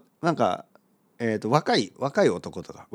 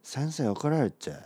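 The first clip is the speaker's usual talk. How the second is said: high schooler mumble. Acted. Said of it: "高校生が友達と話す時に".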